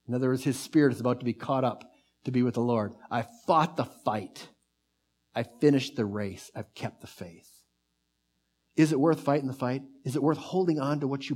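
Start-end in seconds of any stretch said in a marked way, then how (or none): 3.1-7.6 soft reverent quote. Acted. Quoting Paul's last words softly.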